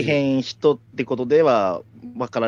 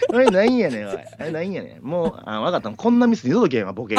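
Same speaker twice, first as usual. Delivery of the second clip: rude angry customer; 3 semitones higher than usual. Acted. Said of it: "今のでも結構頑張ったよ".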